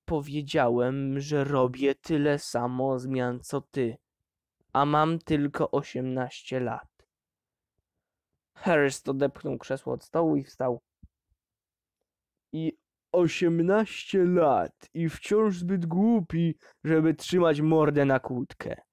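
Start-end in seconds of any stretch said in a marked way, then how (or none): 0.0-7.1 slow, deliberate, pointed; defiant repeat. Acted. Son defiantly repeats himself. 12.5-18.8 slow, sneering father's voice; contemptuous mockery. Father mocks son.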